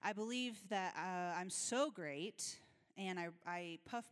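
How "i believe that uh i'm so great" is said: prideful. Acted. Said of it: "There's pride of".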